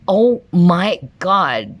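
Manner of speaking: very slow, drawn-out oh my God; slow, awed exclamation; stunned surprise. Real, not acted. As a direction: let it sink in, amazed. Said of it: "I'm so enthusiastic".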